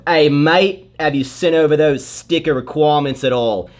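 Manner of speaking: a light, lightly imitated Australian accent. Quoting his Australian designer in a light Australian accent. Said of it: "so I'll do his accent".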